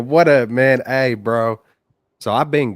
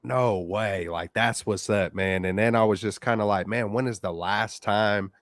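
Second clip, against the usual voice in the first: over the phone. Real, not acted. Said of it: "another caller on the line".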